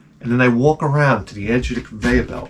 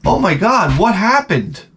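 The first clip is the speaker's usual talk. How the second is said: high, gasping nosy coworker; 7 semitones higher than usual. Retold or imitated. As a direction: ape the gawking coworkers. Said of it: "I get this".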